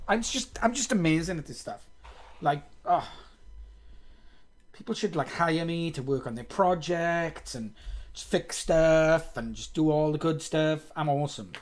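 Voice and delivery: mock boasting, tongue in cheek; sarcastic. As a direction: brag it sarcastically. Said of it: "I'm, I'm being sarcastic".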